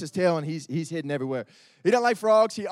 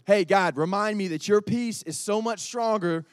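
sample prayer. Shown as a demonstration. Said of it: "Like, literally".

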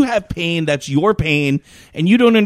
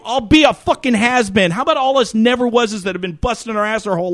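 high-pitched indignant tirade at the TV; acted-out outrage, pitched up but not shouted; retold angry rant; 4 semitones higher than usual. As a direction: rail at a whining celebrity. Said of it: "I'm screaming at the fucking".

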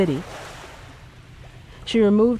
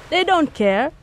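high urgent man's voice; voiced man urging her to stop; insistent plea; 10 semitones higher, slower than usual. A narrator's reading. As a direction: press the point, higher. Ondo pleads with her.

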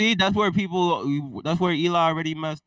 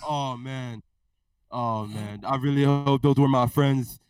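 lightly voiced blustering president; a hint of a rambling politician; president impression. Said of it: "So, Mister President".

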